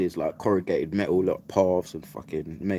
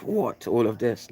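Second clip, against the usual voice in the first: a sudden high squeak on What, then a stunned All of this; startled and disbelieving, voice jumping up; shocked disbelief; 6 semitones higher, slower than usual. Retold or imitated. Narrator reliving seeing the giant weed parcel, high surprised What.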